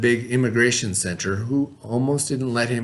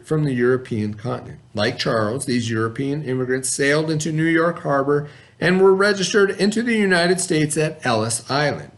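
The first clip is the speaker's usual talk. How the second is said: clear, even read-aloud voice for a class; story narration. A narrator's reading. Teacher reading a picture book to the class, steady narration.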